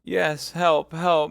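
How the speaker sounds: high, loud pleading; clinging to hope; frantic begging; desperate plea. Acted. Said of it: "murmured Madame Bonacieux".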